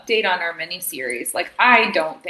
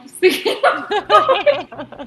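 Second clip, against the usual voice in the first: words through a yawn; 11 semitones higher, 8 dB louder, slower than usual. Real, not acted. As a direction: speak mid-yawn. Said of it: "it's making me yawn".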